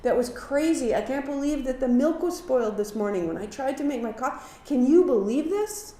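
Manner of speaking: playfully hammed-up complaint about spoiled milk; mock complaining. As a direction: gripe like someone stuck in a bad day. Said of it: "Not to say".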